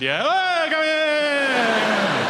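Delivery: high, loud eager invitation; excited welcome. Retold or imitated. His weight welcoming him in, high, loud and eager. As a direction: throw the door open, gushing. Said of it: "And my weight said".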